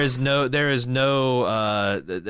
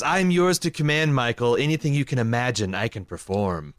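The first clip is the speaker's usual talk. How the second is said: prissy robot voice. Retold or imitated. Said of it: "that's what he says".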